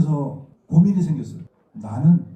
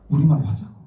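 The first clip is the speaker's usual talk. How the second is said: usual speaking voice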